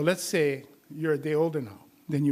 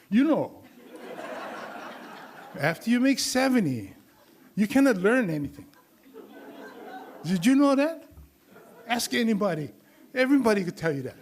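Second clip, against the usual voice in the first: imitating old student; 6 semitones higher than usual. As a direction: ham up the know-it-all old guy. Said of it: "He goes".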